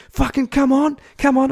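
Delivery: high, loud acted goading; fight challenge. Driver challenging runner to fight, loud and high. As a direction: goad him like an irate driver.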